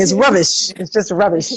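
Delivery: lightly put-on Canadian accent; mock Canadian. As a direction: play at sounding Canadian. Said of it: "I'm going Canadian".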